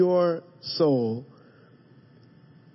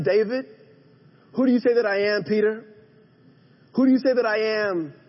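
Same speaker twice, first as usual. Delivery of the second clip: building refrain; 5 semitones higher than usual. Acted. Repeated rising refrain of questions.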